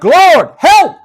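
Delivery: high frantic cry for help; panicked cry. Acted. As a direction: scream it like men about to drown. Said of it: "they started to freak out".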